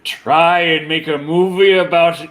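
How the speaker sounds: a hint of the Brain plotting; Brain impression. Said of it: "Work on your brain impression".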